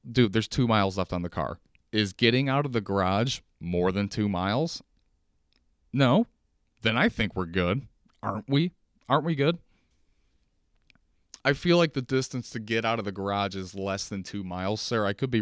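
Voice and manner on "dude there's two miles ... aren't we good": sarcastic comeback. Retold or imitated. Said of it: "I wanted to say".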